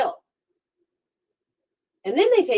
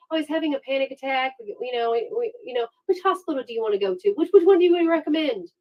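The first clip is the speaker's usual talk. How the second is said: mock casual cops; 4 semitones higher, faster than usual. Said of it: "the police are like".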